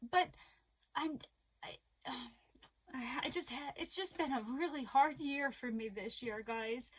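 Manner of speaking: halting, sighing, close to tears; getting emotional. Real, not acted. Vlogger telling viewers about a hard year, real emotion. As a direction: falter and sigh as feeling wells up. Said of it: "And I get emotional".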